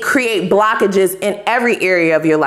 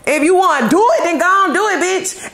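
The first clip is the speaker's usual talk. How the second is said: spirit voice quoted; 5 semitones higher than usual. Retold or imitated. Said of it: "They said".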